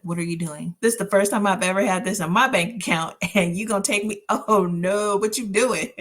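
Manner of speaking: fast, loud, indignant rant at God; retold outburst at God, fast and loud; angry at God. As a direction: fire off the complaint quick and loud. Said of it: "I was so angry at God".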